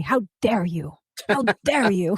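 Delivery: loud accusing, scolding outcry. Doing a mocking impression while commenting on a governor: Greta Thunberg impression. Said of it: "my Greta Thunberg and say".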